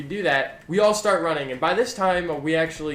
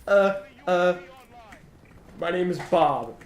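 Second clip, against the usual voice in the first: put-on stammering scared kid; 3 semitones higher than usual. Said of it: "And I'm so scared".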